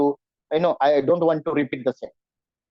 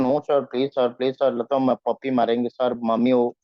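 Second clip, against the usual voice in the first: pleading excuses; 6 semitones lower than usual. Shown as a demonstration. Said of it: "you are trying to give a lot of excuses".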